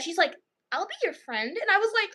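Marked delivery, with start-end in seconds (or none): 0.7-1.5 softly imitated sweet child; sweet little girl. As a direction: offer it gently, softer. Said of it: "very sweet about it".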